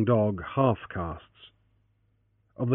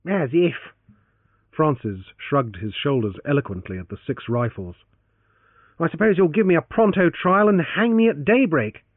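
Francis, sarcastic; 4 semitones higher than usual. Acted. Francis shrugging off the threat.

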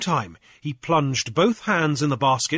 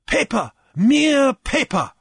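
slow, high, loud scorn; dismissive reply; 13 semitones higher, 6 dB louder, slower than usual. A narrator's reading. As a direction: draw out each word dismissively. Jeremiah dismisses the note.

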